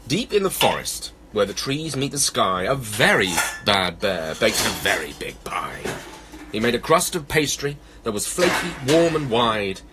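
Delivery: animated, measured verse reading; children's story narration. A narrator's reading. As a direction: read a picture-book rhyme to children. Reads a children's poem.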